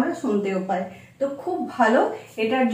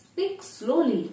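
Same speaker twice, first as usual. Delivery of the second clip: soft and slow; 5 semitones higher, 6 dB quieter, much slower than usual. Shown as a demonstration. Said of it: "যদি কেউ এই কথাটা এইভাবে বলে".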